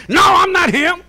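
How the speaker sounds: high-pitched acted denial; alarmed protest. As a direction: protest your innocence, voice jumping up. Acts out protest at mistaken identity.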